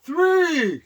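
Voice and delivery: long, loud shouted count; drawn-out shout. Real, not acted. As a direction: belt it out to needle him. Chanting three again.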